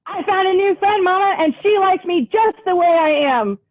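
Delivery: excited to tell mama; Bunny Bear. Acted.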